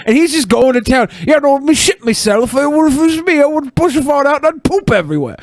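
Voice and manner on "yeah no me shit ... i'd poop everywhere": put-on English accent. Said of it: "you used the damn English accent".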